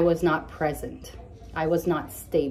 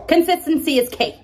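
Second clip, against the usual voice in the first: emphatic; 10 semitones higher, 7 dB louder than usual. Real, not acted. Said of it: "I have a lisp".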